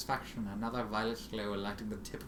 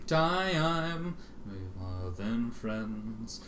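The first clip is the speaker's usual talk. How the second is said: eerie voice; much slower than usual. Acted. Eerie voice in the void.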